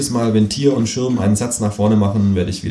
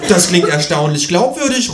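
higher, raised ghost voice; calling out; 9 semitones higher, 4 dB louder than usual. A narrator's reading. Ghost reacting to a surprisingly credible theory, calling out. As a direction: call it out, pitched up. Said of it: "ruft das Gespenst".

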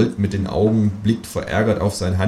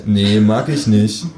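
slow refusal; 5 dB louder, slower than usual. Acted. Author answers the kangaroo.

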